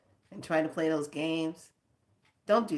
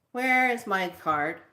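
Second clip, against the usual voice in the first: demonstrated questioning; 3 semitones higher, 4 dB louder than usual. Retold or imitated. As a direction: stretch it out like calling on an oracle. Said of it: "I go like this".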